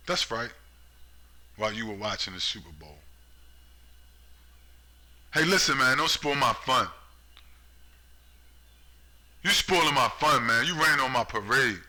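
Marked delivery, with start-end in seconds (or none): 5.3-11.8 loud, high whiny protest of a partygoer; hammed-up plea to be left alone; mock whiny American. Mock American complaining loudly not to spoil his fun.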